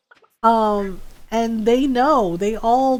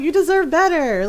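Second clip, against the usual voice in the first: urging; 5 semitones higher, 3 dB louder than usual. Retold or imitated. Urging a friend on.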